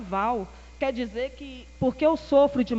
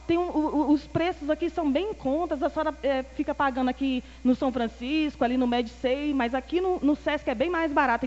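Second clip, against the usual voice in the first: cheerful pitch; 3 semitones higher than usual. Retold or imitated. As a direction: chirp the bargains happily. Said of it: "aí eu toda alegre contando".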